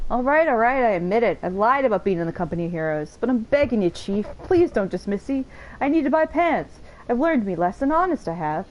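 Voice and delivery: lightly acted begging underling, pitch jumping up; a touch of a contrite, wheedling rogue; pleading confessor. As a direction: mildly plead for another chance. Voices a game character begging his chief.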